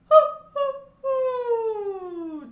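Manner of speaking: very high, very loud hoo calls. Shown as a demonstration. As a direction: shoot hoos up from the back. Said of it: "ha-has up in the range".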